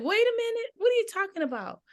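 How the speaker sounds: high, fast, bewildered question; imitating startled confusion. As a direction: rush it out, thrown off guard. Her startled reply to coworker.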